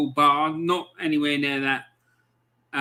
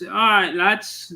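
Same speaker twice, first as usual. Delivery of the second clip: lightly imitated strong Sheffield greeting, pitched up; Sheffield accent; 5 semitones higher, 5 dB louder, slower than usual. Fella in a car greeting away fans, Sheffield accent. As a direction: greet them like a Sheffield local. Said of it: "real, strong, uh, Sheffield accent".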